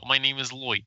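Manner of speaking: light mock Russian accent; a playful hint of a Russian accent. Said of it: "a Russian accent just for fun".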